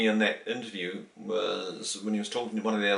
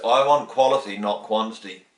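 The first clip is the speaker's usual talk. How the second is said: louder, lightly imitated stern guru; very firm; 7 dB louder than usual. Guru insisting to a devotee on quality, very firm. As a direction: lay down the rule without room for argument. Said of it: "Very firm".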